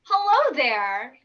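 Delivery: slow, loud, lightly voiced parrot; polite parrot voice. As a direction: talk like a prim polite parrot. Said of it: "They just say".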